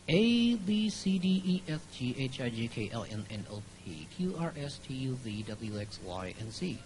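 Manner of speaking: lips still, mouth barely open; without moving lips. Shown as a demonstration. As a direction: ventriloquist alphabet, lips frozen. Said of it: "alphabet without moving my lips".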